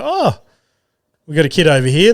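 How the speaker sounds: high, bright crowd call; mock excited host. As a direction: call it out like a hyped MC.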